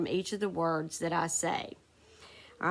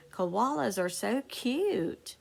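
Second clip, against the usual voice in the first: exclamatory reading; 3 semitones higher, slower than usual. Shown as a demonstration. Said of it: "shows strong feeling".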